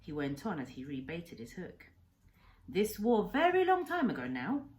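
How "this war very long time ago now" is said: lightly voiced old doctor, proud then grave; old Japanese man telling his past. Old man telling the boy his life story, lightly accented. Kensuke resumes.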